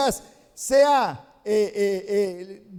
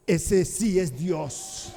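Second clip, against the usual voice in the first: awed hush; 6 semitones lower, 7 dB quieter, much slower than usual. Acted. People fall down worshipping.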